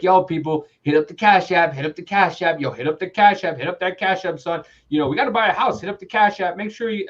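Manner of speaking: lightly imitating a pushy streamer; a hint of hype-man pleading; mock livestream hustler. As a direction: rattle off the plea, insistent and repetitive. Imitates livestreamer begging for money.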